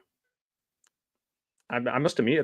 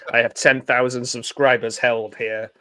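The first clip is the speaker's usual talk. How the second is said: mock megalomaniac villain; 3 dB louder than usual. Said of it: "Gareth would be a great megalomaniac".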